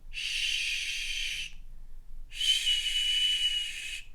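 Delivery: long "shh" like hushing someone; shushing sound. Shown as a demonstration. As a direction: hold "shh" on a steady stream of air. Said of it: "similar sound to the sound that you make".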